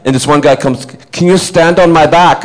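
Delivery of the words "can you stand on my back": imitating a fan, higher and drawn out; slow, high, hopeful request; eager fan. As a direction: mimic an over-keen fan. Imitates fan's odd request.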